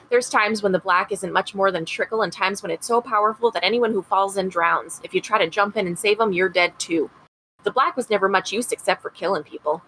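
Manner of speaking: put-on a light Rochester, upstate New York accent for Mary; mother remembering her son, a hint of a Rochester accent. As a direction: read it gently as Mary Blake in a mild Rochester accent. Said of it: "read this in her Rochester accent".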